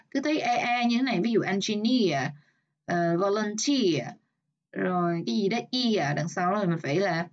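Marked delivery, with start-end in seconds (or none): 3.2-4.1 slow "volunteer", stressed on TEER; stress on third syllable. Shown as a demonstration. Teacher marking word stress, "volunteer" slowly stressed on TEER. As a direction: draw out the last syllable of "volunteer". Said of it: "Volunteer nhấn âm ba".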